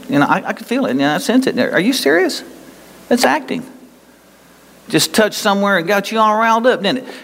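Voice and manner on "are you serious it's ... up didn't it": God's voice. Retold or imitated. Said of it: "the Holy Spirit speaking to you".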